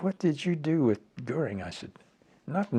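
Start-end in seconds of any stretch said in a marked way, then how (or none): 0.0-1.6 raised, sharp questioning voice; demanding officer, high and tense; surprised colonel. Retold or imitated. Retold heated argument with colonel. 2.5-2.8 high, curt defiant answer. Retold or imitated. Retold heated argument with colonel.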